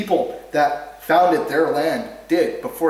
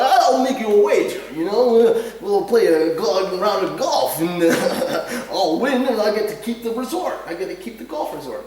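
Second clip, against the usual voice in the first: high, loud hammed-up character voice; mock film character; 6 semitones higher, 6 dB louder than usual. Mocking a movie character's wager in a loud high voice. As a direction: play a smug, pushy gambler. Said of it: "he's like".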